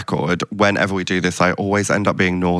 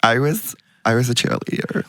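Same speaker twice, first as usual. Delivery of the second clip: lightly put-on American; halting American persona; American accent. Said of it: "do American accents".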